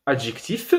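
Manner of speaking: "adjectif" with clearly released final f; final F pronounced. Shown as a demonstration. Teacher illustrating pronounced final consonants, "adjectif" with audible f. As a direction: sound the f ending "adjectif". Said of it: "F et L qui sont généralement prononcées".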